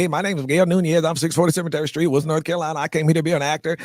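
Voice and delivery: put-on eager farm boy pitching himself in a mild North Carolina country accent. Introducing himself to the actor on the bus, in a mild country accent. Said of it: "I talked like this when I first got there".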